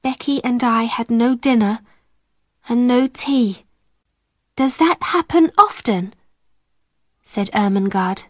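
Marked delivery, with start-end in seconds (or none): 4.5-6.1 unhappy. A narrator's reading.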